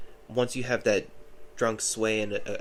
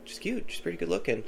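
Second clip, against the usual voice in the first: much higher, eager and impressed; eager buddy voice; 8 semitones higher than usual. Retold or imitated. Buddy spotting the blonde girl at the concert, high and eager. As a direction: mimic the buddy perking right up.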